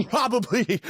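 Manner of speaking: a burst of laughter through the word; laughing. Real, not acted. Laughing at the idea of dad forgetting, laughing.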